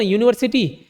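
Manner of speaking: यूनिवर्सिटी with a "yoo" onset; starts with Y-U. Shown as a demonstration. Teacher asking learners to try it, यूनिवर्सिटी said with initial "yoo". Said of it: "वाई यू से".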